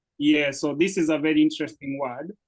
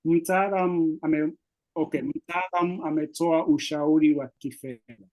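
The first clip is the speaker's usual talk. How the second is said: own quick accent. Shown as a demonstration. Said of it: "So I would say like this in my accent".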